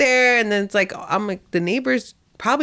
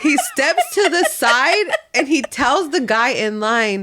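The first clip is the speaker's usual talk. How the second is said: slow, higher, amused storytelling; drawn-out incredulity; 4 semitones higher, slower than usual. Real, not acted. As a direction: drag it out in laughing disbelief. Incredulous retelling, repeated for effect.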